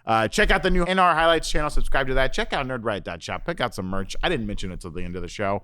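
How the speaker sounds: upbeat show sign-off; host outro. Acted. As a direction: wrap up the episode like a host.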